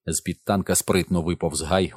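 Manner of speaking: plain reading voice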